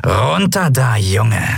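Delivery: lightly growling cat pirate; growled order. A narrator's reading. Pirate orders the boy down from the gangway, growling. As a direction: growl it as a command. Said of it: "knurrte die Piratin".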